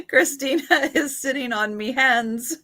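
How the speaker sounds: laughing Irish leprechaun lilt; playful leprechaun accent, giggling. Pretend. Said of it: "you did just sound like a leprechaun".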